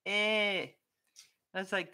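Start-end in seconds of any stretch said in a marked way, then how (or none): 0.1-0.7 raised-pitch mock bark as "eh"; higher, drawn dog-noise imitation; imitated dog bark. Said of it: "all he's going was".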